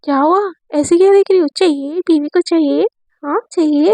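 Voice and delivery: provoke her on purpose; taunting. Acted. Divya teases the glaring Amaira, taunting. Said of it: "उसको दिखा रही होती है".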